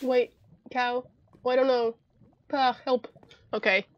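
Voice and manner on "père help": playful French "Père"; French accent. Pretend. Player calling the named character for help, French accent. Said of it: "that accent's getting me".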